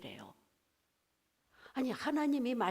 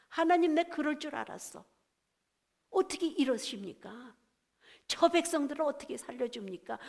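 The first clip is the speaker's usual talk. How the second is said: retold complaint with a touch of anger; angry Jonah; 3 semitones higher than usual. Jonah objecting to God sparing Nineveh, mildly acted anger. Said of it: "인간적으로 너무 화가 났어요".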